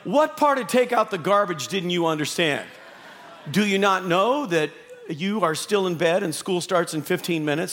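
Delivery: exasperated parent. Retold or imitated. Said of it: "Every parent in the room understands the tone".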